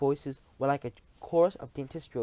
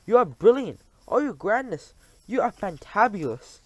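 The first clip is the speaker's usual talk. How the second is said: high, loud gushing praise; fawning witches; 6 semitones higher, 7 dB louder than usual. Acted. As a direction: grovel with delight. Witches praise their leader.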